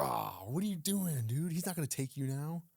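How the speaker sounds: high, loud incredulous teasing; exasperated disbelief. Retold or imitated. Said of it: "And Brian's just like".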